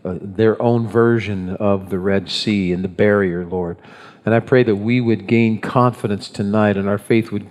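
low, measured prayer voice. Real, not acted. Pastor prays before opening the word, prayer voice. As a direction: pray sincerely over the congregation, low and even.

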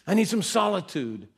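hammed-up exasperated no; mock snap. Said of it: "retelling his own snapping reply".

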